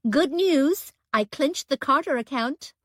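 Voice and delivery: put-on joking clumsy American accent to cheer her up; poor American accent. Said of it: "she quipped in a poor attempt at an American accent".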